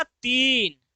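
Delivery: तीन, a pause, then दशमलव drawn right out; slow demonstration reading. Shown as a demonstration. Teacher dictates a reading to examine, very slowly word by word. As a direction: stretch दशमलव slowly, set apart from तीन. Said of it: "कैसे पढ़ दिया?".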